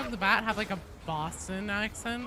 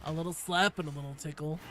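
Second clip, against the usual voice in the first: put-on fast Valley Girl voice; sing-song Valley Girl delivery; 2 semitones lower, faster than usual. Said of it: "in the Valley Girl voice".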